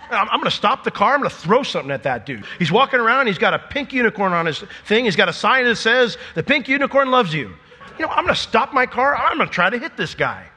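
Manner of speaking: high, loud, hammed-up fury; mock outrage. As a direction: rant like a furious driver. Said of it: "and be like".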